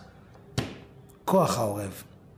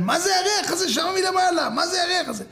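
high-pitched indignant yelling; shrieked complaint, mimicking outraged neighbours; complaining neighbours; 13 semitones higher than usual. Neighbours complaining about the stench from upstairs, indignant. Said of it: "השכנים מתחילים להתלונן".

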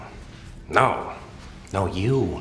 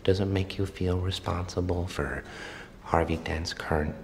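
menacing whisper; 3 semitones lower, 9 dB quieter than usual. Acted. Joker taunts the Commissioner.

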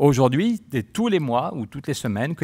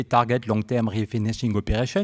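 English read with a plain French Béarnais accent. Real, not acted. Speaker excusing his catastrophic English, Béarnais accent. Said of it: "comme on dit en béarnais".

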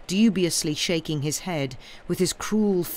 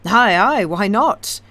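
eager, loud, higher; cried out; 5 semitones higher, 9 dB louder than usual. A narrator's reading. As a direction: blurt it out keenly. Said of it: "cried the sawyer".

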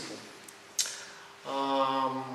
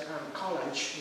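British accent; 6 dB quieter, much slower than usual. Shown as a demonstration. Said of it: "It's a British accent".

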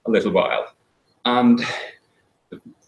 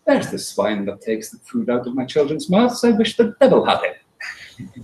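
spiteful farm wife. Acted. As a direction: spit out the wish with venom. Farm wife curses the taxman.

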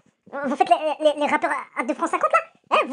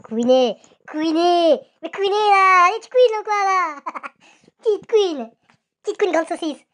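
taunting shout; 2 semitones higher, 4 dB louder, slower than usual. Real, not acted. Daring his rivals to answer: rising taunting shout. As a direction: bellow the dare at them.

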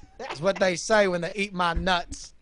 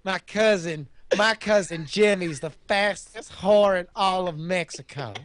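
a lightly voiced hayseed, a bit louder; hayseed cousin; 3 dB louder than usual. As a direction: ham up a folksy country cousin. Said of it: "his hayseed cousin, Johnny Nuts".

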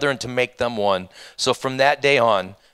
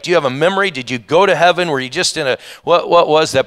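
higher and louder, bursting with curiosity; can't wait to ask Lazarus, voice up and loud; excited wondering; 4 semitones higher, 5 dB louder than usual. Real, not acted. Firing questions at Lazarus.

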